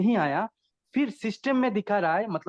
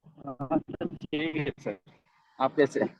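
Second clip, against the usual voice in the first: choppy line, voice cutting out; breaking up on a bad connection; 4 semitones lower, 4 dB quieter than usual. Real, not acted. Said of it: "आपकी आवाज़ cut रही है साहिल".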